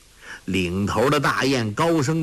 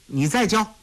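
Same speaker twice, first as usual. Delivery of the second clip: eager; 10 semitones higher than usual. Acted. Eager boy asks for more.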